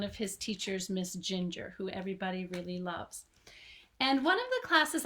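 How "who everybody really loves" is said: hushed whisper; whispered aside. Real, not acted. Teacher whispering to viewers about Miss Ginger, hushed. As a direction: drop to a secret whisper. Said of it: "whisper heard on line".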